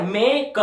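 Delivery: मेक split into "मे" and "क"; sounded out. Shown as a demonstration. Teacher breaks the word into its sounds, sounded-out मेक. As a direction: say मेक in two parts, मे, then क. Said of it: "एम और के consonant है और ए की आवाज है".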